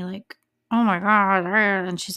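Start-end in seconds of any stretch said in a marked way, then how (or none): 0.7-1.4 retold anguished cry. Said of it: "like, screaming".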